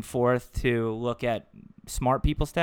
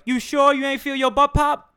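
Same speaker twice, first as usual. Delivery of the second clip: much higher, louder mocking buddy voice; teasing friend; 12 semitones higher, 4 dB louder than usual. Friends teasing Ryan about a fart, high mocking voice. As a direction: rib him, voice pitched way up. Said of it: "they're like".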